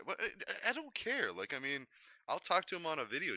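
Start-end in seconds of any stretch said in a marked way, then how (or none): 0.0-1.3 mock indifferent. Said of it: "sign a piece of paper and say".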